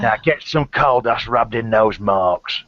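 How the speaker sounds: slow, lightly gruff London hardman; a hint of a tough geezer; Ray Winston impression. Friends riffing on a film role, slow mock hardman. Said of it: "Ray Winston".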